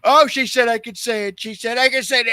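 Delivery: high, loud, gullible mock voice; naive mock self. A comic mocking his own gullible self at the open mic, high and loud. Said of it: "and I go".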